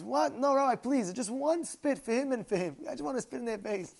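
high, wheedling retold plea; acted pleading. Rat begs rabbi for one spit, pleading.

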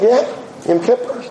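lightly voiced grandmother; grandmother's reply. Grandmother confirming her favorite day to a grandchild, matter-of-fact. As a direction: answer as if it were obvious. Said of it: "She said".

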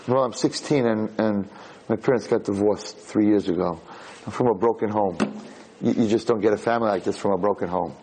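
put-on low, resigned teenager; understated sad girl, acted; downcast confession. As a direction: let the pitch sink as if admitting defeat. Girl confesses parents' divorce.

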